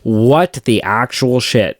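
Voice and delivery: slow stunned disbelief; shocked viewer. Retold or imitated. Fan retelling the twins reveal, slow stunned disbelief. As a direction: let the words drop slowly in shock. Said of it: "And you're like".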